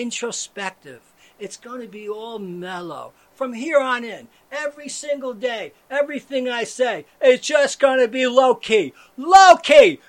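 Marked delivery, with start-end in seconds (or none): 3.3-7.0 building to a full shout about staying calm; escalating shout. Acted. Ranting loudly about being low-key. 7.2-8.9 loud build, not yet topping out; rising rant voice. Acted. 9.2-10.0 yelled at the top of the voice, higher; comic contradiction yell; ironic shout. Acted. Shouting "low-key" ironically.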